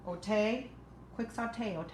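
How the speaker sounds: lame pun punched out; cheesy saute pun for viewers; punning joke. Pretend. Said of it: "that was lame".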